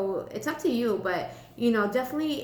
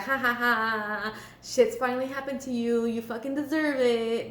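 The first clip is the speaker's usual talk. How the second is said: gloating. Acted. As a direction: play a taunting gloater. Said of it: "sit there and start gloating".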